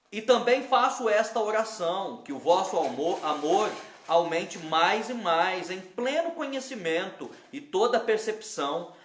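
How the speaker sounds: measured, solemn reading aloud; scripture reading. Real, not acted. Pastor reading Paul's prayer to the church, formal reading. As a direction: read the verse to a congregation with deliberate phrasing. Reads the Bible passage aloud.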